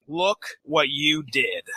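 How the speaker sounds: slow, understated taunt; mocking. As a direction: drop the pitch and draw it out, lightly taunting. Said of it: "mockingly looks at Barry and says".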